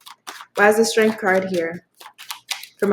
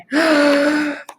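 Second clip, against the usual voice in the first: higher, startled intake of breath; sharp emotional gasp; 5 semitones higher than usual. Real, not acted. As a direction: gasp as it hits you. Overcome by the card drawn.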